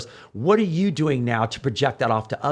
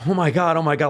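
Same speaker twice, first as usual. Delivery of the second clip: mildly gushing imitation, a bit higher and louder; happy gushing; 3 semitones higher, 4 dB louder than usual. Girl meeting him at a bar, happy mock gushing. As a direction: imitate a thrilled fan. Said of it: "was so happy".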